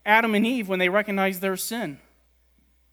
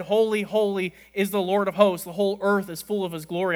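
calling out; 5 dB louder than usual. Retold or imitated. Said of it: "one called out to another and said".

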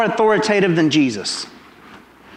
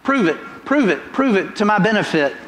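poking taunt; 2 semitones higher than usual. Retold or imitated. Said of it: "kinda poking at Je".

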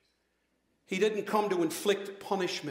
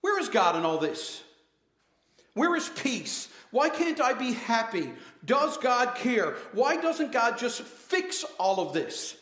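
desperate outcry; 4 semitones higher than usual. Retold or imitated. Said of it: "the temptation right now is to yell out".

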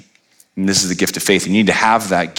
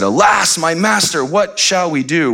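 mock alarmed servant; 8 semitones higher, slower than usual. Reading the servant's terrified cry.

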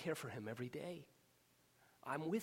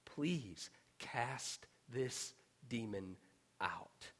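slow, drawn-out, fading to a whisper; hushed plea; 2 semitones lower, much slower than usual. Acted. Father begging Jesus to cast out the demon, whispered.

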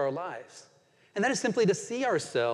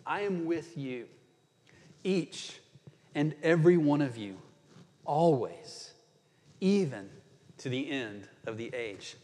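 slow and tender; 3 semitones lower than usual. Pretend. Preacher voicing Jesus to his eleven disciples, slow and tender. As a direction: speak gently to each person, unhurried. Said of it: "I wonder if Jesus didn't say that slowly".

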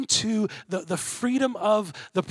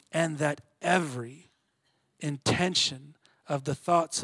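solemn scripture reading; 3 semitones lower than usual. Shown as a demonstration. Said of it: "Let the darkness ... settle in".

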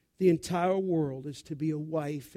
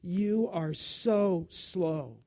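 mock scolding mother. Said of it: "for a mother to say".

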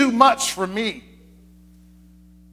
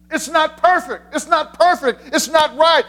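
anxious inner voice; 7 semitones higher than usual. Pretend. Voicing the anxious perfectionist's thoughts.

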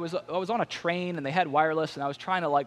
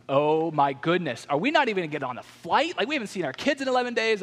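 mock panic; 2 semitones higher than usual. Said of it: "I'm starting to get really upset".

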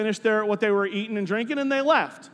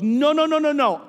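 higher, quick-fire protest; eager objection; 5 semitones higher, 4 dB louder than usual. Retold or imitated. Cook jumping in to make the cake, eager interruption. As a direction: cut in insistently to take over.

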